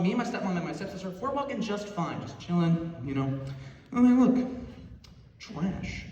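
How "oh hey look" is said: mock excited tourist. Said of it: "we're just walking along".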